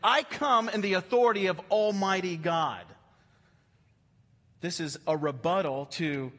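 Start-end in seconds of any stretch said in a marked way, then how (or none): 0.0-2.9 authoritative. Acted. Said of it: "a declarative, authoritative statement".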